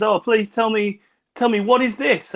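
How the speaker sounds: bad French accent. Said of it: "She was French".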